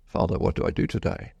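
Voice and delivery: whispered, asking the Father; hushed prayer. Retold or imitated.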